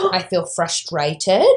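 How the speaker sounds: slow, deliberate imitation of a small child; lightly voiced preschooler. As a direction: measure out each word like a little boy naming his feeling. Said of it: "he was like".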